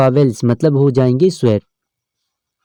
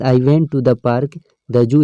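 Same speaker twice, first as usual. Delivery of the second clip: sentence read out slowly, word by word; slow reading aloud; much slower than usual. Shown as a demonstration. Teacher reads the example sentence slowly to students. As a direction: dictate it slowly to the class. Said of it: "teacher reads example sentence".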